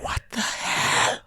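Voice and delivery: breathless, slow whispered disbelief; stunned whisper. Retold or imitated. Retelling Ash's surprise call, a slow stunned whisper. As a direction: mouth it in slow shock.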